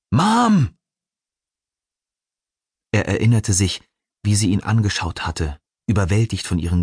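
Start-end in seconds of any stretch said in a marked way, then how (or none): 0.1-0.8 high, drawn-out cry for Mom; calling out. A narrator's reading. Prisoner to his lost mother at the cell door, calling out. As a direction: call out high and loud for your mother. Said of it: "rief er nach jenem Menschen".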